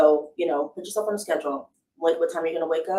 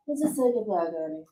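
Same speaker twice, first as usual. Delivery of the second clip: sultry voice. Shown as a demonstration. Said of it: "you can hear me say things like this".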